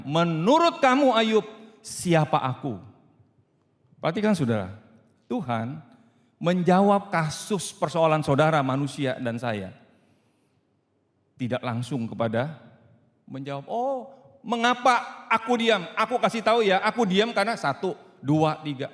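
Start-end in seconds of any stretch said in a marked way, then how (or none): 0.0-2.8 God asking back. Acted. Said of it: "Tuhan balik bertanya". 13.7-18.9 mock explaining God. An imagined God explaining His silence, a mock explanation.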